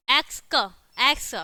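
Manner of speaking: एक्स क, एक्स broken into its sounds; demonstrated pronunciation. Shown as a demonstration. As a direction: sound out एक्स with its k then s, firmly. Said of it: "ऐसे बोलते हैं".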